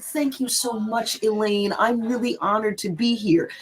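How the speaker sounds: retold gracious thanks, lightly acted; polite, honored sincerity; smiling thanks. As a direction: thank the host sincerely, with a smile. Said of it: "I smiled and I said".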